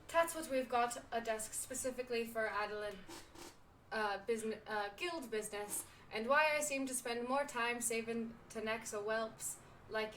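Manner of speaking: lightly put-on pirate brogue; halting amateur pirate accent; bad pirate accent. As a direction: read as a pirate innkeeper, accent slipping. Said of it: "this accent is going to go all over the place".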